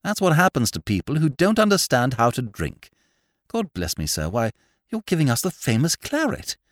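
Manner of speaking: high, loud, indignant declaiming; emphatic. A narrator's reading. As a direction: pronounce judgement with great force. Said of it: "said Whimsy emphatically".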